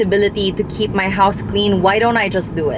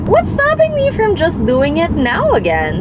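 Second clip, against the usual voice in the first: self-challenge; 9 semitones higher, 3 dB louder than usual. Retold or imitated. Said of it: "So I'm like".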